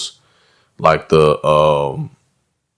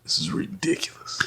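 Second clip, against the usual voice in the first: breathless laugh; 11 semitones higher, 13 dB quieter than usual. Real, not acted. Wheezing after laughter.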